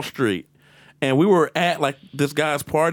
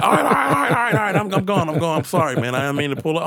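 hasty backing down; 3 semitones higher, faster than usual. Retold or imitated. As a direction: placate quickly, pitch dropping into apology. Acted cop backing off, apologising.

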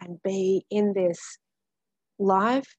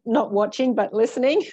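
amused; 3 semitones higher, 7 dB louder, faster than usual. Real, not acted. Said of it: "I think I just swallowed a bug".

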